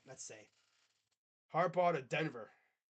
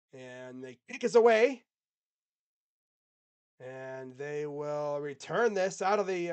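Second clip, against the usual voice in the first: Southern announcer accent; 2 semitones higher, 6 dB louder than usual. Shown as a demonstration. Streamer calls the game to chat in a light Southern accent. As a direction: call the kickoff in a put-on Southern accent. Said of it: "That's redneck enough for me".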